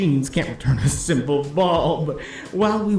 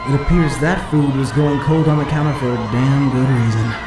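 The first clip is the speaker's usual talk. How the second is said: excited announcing. Acted. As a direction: announce the horror like a big play. Announcer reveals the severed head.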